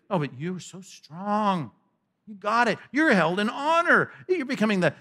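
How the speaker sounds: exaggerated, sing-song congratulation; sarcastic praise. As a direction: flatter them with mock admiration.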